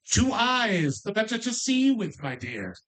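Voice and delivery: "Two eyes, the better to see you with, my dear" in a lightly cackling witchy voice; a hint of a wicked witch. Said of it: "I did kind of do it in a wicked witchy voice".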